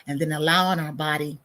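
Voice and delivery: calm meditation leader, unhurried; guided breathing meditation. Real, not acted. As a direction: let each phrase settle on the breath. Leads a breathing pause.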